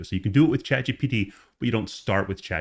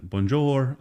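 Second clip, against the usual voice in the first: mangled French; 5 semitones higher than usual. Shown as a demonstration.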